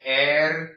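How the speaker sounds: Hernández with silent H, syllable by syllable; correct Hernández. Shown as a demonstration. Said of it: "pronounce the rest of the word".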